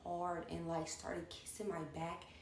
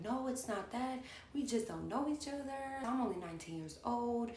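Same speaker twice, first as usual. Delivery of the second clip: higher-pitched, pleading explanation; defending herself; 5 semitones higher than usual. Retold or imitated. Nineteen-year-old explaining to older woman, mildly defensive. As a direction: retell yourself defending, pitched up. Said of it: "like, defending myself".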